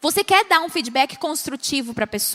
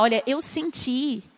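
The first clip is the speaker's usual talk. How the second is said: gentle; 3 dB quieter than usual. Shown as a demonstration. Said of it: "você vai falar".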